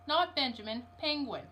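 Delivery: Penguin stressed against Benjamin; correcting stress. Acted. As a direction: lean on Penguin to correct the mishearing. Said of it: "said Mister Popper".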